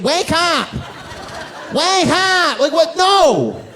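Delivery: high shouted wake up!; mock wake-up yell. Mimicking a woman waking him.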